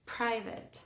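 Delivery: "Private" con la P bien exagerada; exaggerated plosive p. Shown as a demonstration. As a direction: escupe la P de "Private". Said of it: "Yo se los hago exagerado". ("Private" con una P explosiva exagerada)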